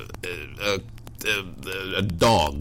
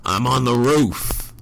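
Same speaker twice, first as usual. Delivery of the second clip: drawn-out, mildly raised retold yell; mock sleepy yell; 4 semitones higher, slower than usual. Man retells his drowsy phone nonsense, mock yell. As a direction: imitate yourself yelling half-asleep, slowly. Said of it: "apparently kept yelling".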